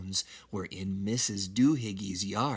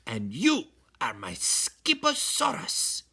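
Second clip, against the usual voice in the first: kitten voice; 5 semitones higher than usual. Acted. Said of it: "he added".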